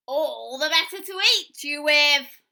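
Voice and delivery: very loud, slow roaring wolf; the big reveal before pouncing; menacing wolf. Acted.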